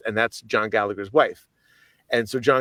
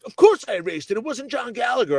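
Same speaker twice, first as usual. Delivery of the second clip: dismissive; 12 semitones higher than usual. Retold or imitated. Friend voiced, dismissive.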